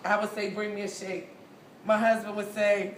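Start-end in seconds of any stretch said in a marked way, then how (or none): 0.5-1.3 words pushed through closed teeth; talking through clenched teeth; jaw wired shut. Retold or imitated. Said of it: "I'm talking through my teeth".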